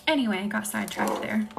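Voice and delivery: hushed, breathy bedtime whisper-talk. Real, not acted. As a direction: lull the viewers toward sleep. ASMR live, soft whispery talk.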